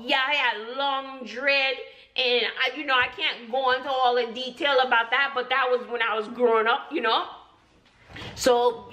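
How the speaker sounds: playful Jamaican patois character; lilting, easygoing Jamaican accent. Acted. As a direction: put on a laid-back Jamaican persona.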